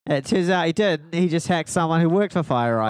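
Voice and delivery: broad nasal Aussie storyteller; mock Australian accent. Telling mate about Twitter claim, put-on Australian accent. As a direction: spin the yarn in pretend pinched Australian. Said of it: "My nose is sore now".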